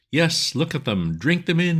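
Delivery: loud, high yell at the crowd. A narrator's reading. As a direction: bellow it at the onlookers. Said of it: "he was yelling".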